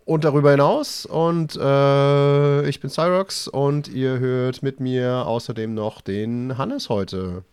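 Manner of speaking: slow, polished radio presenter voice. Acted. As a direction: announce it like a radio host. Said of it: "extra seine Radiostimme aufgelegt".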